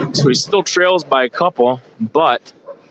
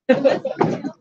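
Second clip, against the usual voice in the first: laugh; 13 semitones higher, 5 dB quieter than usual. Real, not acted. Commentator laughs during the delay.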